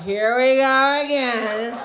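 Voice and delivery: drawn-out, mock-resigned groaning words; weary resignation. Woman resigned to doing her man a favor, slow mock resignation. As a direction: drag each word out slowly.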